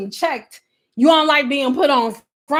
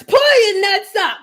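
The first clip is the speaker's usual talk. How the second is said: drawn-out, emphatic order; slower repeat; 7 semitones higher than usual. Pretend. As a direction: lean on pull, slow and firm. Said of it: "my voice not even aggressive".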